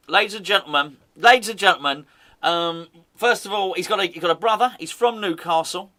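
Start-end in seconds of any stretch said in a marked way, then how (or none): 0.1-2.1 announcer voice. Pretend. Announcer intro for big reveal.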